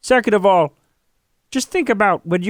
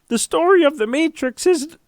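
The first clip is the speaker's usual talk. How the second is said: crying talk demo; 3 semitones higher than usual. Shown as a demonstration. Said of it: "you sound a little something like this".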